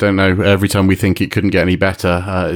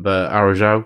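put-on Uruguayan accent. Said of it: "That's my, uh, Uruguayan accent".

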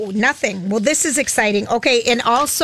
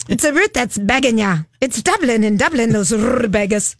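rolling R's. Acted. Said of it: "Why are you rolling your R's?".

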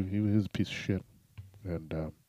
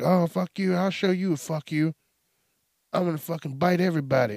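high, loud hammed-up threat; Batman; 10 semitones higher, 6 dB louder than usual. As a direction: yell back in a blown-up rage. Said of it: "And he was like".

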